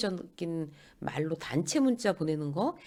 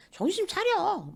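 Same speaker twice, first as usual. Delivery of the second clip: much higher, drawn-out reproach; disapproving scolding; 12 semitones higher than usual. Acted. Disgruntled manager scolds a close colleague, exasperated. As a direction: tell them off in mock exasperation. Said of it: "뭐 이렇게 못마땅해서".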